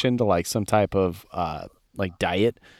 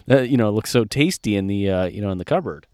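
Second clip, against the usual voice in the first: gloating inner voice; 4 dB louder than usual. Retold or imitated. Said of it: "And it's like".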